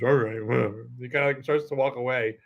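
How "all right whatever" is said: low mock-defeated mumble. Imitating the roasted guy starting to walk away, all defeated. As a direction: give up, voice sinking lower. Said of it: "he's all defeated".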